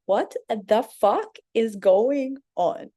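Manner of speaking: slow, drawn-out disbelief; incredulous. Retold or imitated. At the table full of women, slow baffled disbelief. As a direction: stretch it out, baffled. Sitting among his many women.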